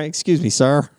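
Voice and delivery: high-pitched comic mimicry; Jim Carrey. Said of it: "and he goes".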